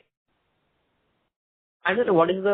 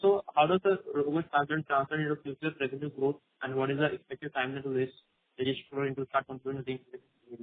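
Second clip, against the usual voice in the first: muffled. Real, not acted. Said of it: "your voice was a little muffled".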